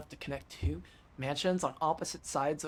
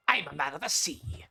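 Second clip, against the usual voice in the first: pirate voice. Acted. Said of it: "I gotta keep doing the pirate voice".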